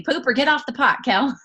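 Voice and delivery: hammed-up motherly scold; mama's saying. Mama telling her daughter Kel to commit, mock scold. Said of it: "that's what she has told me".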